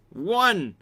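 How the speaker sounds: high, loud shouted count. A narrator's reading. Counting the first belt blow at him, shouting. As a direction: shout it out like an expletive. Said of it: "I shout at him".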